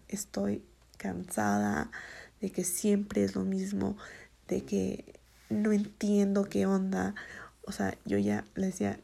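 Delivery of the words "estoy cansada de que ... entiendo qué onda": slow, whispered, half-crying complaint; retold tearful plea. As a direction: breathe it out slowly as if through tears. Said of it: "yo lloraba mientras decía".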